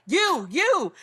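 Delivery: high, loud playful jab; mock teasing call. Acting out a party-game teaser.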